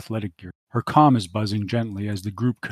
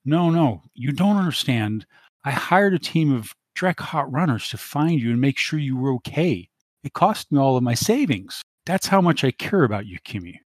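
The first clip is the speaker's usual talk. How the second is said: higher, pleading whine; whining; 4 semitones higher than usual. Acted. Dante on the comm to Kimmy, whining. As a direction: beg like a spurned suitor. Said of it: "starts to whine".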